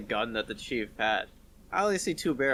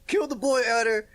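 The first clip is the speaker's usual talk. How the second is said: mock villain threat; 8 semitones higher, 5 dB louder than usual. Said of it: "And I'm just like".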